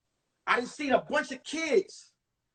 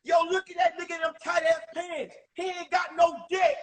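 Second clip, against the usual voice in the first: higher mocking shout at the new kid; mocking girl's voice; 4 semitones higher than usual. A girl in the cafeteria mocking the new kid, shouting. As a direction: jeer at his tight pants. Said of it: "was a female voice".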